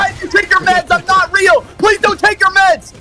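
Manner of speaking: high, shouted pleading voice; creepy imaginary voice. Pretend. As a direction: beg like a voice in your head. Voicing imaginary voice.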